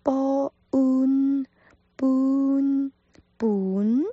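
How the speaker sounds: Cantonese 本 spelt out, nasal ending; Cantonese ban. Shown as a demonstration. Teacher sounding out 本 for Mandarin speakers, drawn out. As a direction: sound out 本 slowly for learners. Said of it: "有点鼻音".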